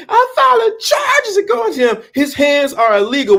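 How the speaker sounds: high, outraged mother voice; the mother threatening charges; indignant mother. Retold or imitated. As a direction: demand justice like an offended mom. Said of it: "his mother said".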